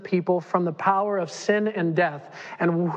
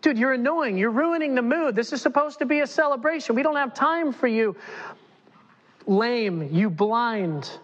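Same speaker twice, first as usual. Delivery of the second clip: higher dismissive scolding crowd voice; annoyed passersby; 5 semitones higher than usual. Acted. Passersby hushing the blind men, dismissive and annoyed. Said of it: "people passing by saying".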